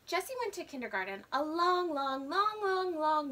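stretched, rising long long long; exaggerated endless long long long. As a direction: pile up the longs dramatically. Sister exaggerating long time.

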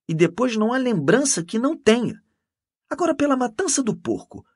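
high, loud, animated storytelling; animated boasting. A narrator's reading. Canon telling Mendes of her devotion, animated. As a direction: gush about it, pitched well up.

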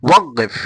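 ওয়াকফ with the qaf said as a g, like waggef; Arab qaf pronunciation. Shown as a demonstration. Teacher showing students how Arabs say ওয়াকফ, with a g sound. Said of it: "গর মতো উচ্চারণ করে".

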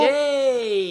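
high loud yay; excited cheer. Real, not acted. Child made the jump.

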